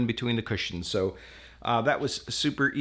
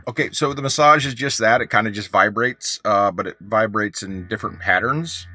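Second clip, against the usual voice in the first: raised voice over engine noise; shouting over engine; 6 dB louder than usual. Real, not acted. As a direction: talk up over the running engine. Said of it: "hopefully you can hear me over the engine".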